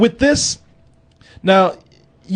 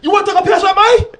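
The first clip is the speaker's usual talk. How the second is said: mock Cockney thug; 12 semitones higher than usual. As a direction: pick a pub fight as a drunk Londoner. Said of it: "Was that English?".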